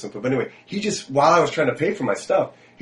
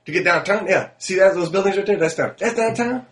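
put-on higher, puzzled drunk echoing directions; imitating the confused drunk; 7 semitones higher, 4 dB louder than usual. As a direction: sound baffled and tipsy, voice pushed up. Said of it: "He goes".

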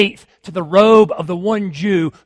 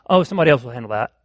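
lazy dismissive voice; 6 semitones lower, much faster than usual. Retold or imitated. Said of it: "Don't think".

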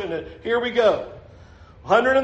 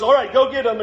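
higher, louder acted command; rousing send-off; 4 semitones higher, 5 dB louder, faster than usual. Preacher voicing God ordering Gideon into battle, rousing. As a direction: send the troops off, a touch amused. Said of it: "I love that God goes".

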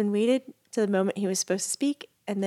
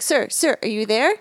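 louder imitated telemarketer checking in; insistent caller; 6 dB louder than usual. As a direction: try to get the silent customer's attention. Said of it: "he was like".

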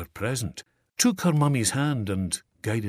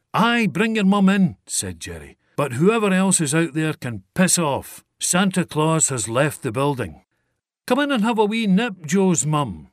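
calling out; 7 semitones higher, 7 dB louder than usual. Acted. Jerry calls out cheerfully.

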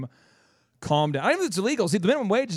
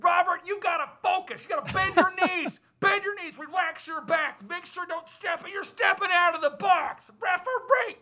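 high mock yelling coach-dad; hammed-up angry father at a ball game; angry sports dad; 12 semitones higher than usual. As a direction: bark orders at your kid from the stands. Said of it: "the angry guy's like".

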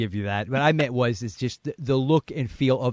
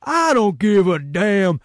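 high, loud and very slow furious bark; hammed-up Travers; 10 semitones higher, 10 dB louder, much slower than usual. Host as Travers on the radio, slow hammed-up fury. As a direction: stretch every word out in mock rage. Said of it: "I'll be Travers".

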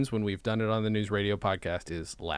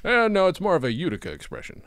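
higher, lightly put-on cartoon voice; acted cartoon quote; 6 semitones higher than usual. Quoting the Steamed Hams episode, lightly acted. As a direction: lightly act out a cartoon line.

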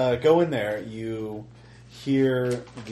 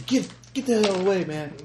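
frantic shouting hostage taker; 11 semitones higher, 6 dB louder than usual. Acted. Kidnapper threatening again.

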